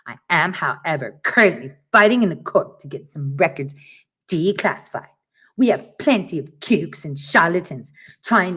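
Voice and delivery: lightly voiced pompous lawyer; mock lawyer voice. Reading the lawyer's email aloud, lightly mocking. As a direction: read it like a self-important attorney. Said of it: "I had to make that voice".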